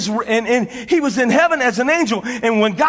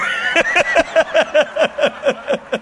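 laughing; 3 semitones higher than usual. Real, not acted. Preacher cracks up at own joke.

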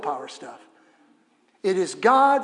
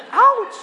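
mock ouch; 11 dB louder than usual. Reacting to nail.

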